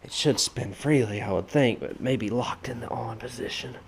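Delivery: winded, out of breath; talking while out of breath. Real, not acted. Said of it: "sorry, I'm out of breath".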